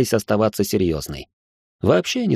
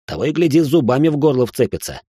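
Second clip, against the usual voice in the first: plain reading voice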